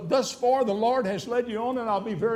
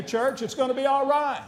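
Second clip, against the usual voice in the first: reassuring; 4 semitones higher, 4 dB louder than usual. Real, not acted. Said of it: "Well, let me tell you".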